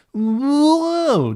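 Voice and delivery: high, loud scream; falling scream. Acted. Tails falling from the snapped branch, screaming. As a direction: yell it while plunging down. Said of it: "Tails and Marine scream as they fall".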